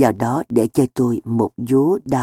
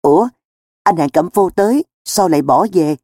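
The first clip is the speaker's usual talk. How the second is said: mildly surprised, higher-pitched question; puzzled "oh?" on finding someone leaving; 4 semitones higher than usual. Acted. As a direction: ask it with a touch of surprise. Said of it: "mặt lộ vẻ ngạc nhiên".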